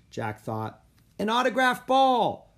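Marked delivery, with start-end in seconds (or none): 1.2-2.5 high, loud demand; loud, pestering kid's shout; kid yelling. A narrator's reading. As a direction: yell it from the stands. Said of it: "another kid yelled".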